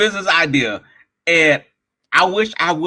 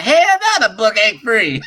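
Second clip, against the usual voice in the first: retold yell; 7 semitones higher, 4 dB louder than usual. Student cussing out the bankers.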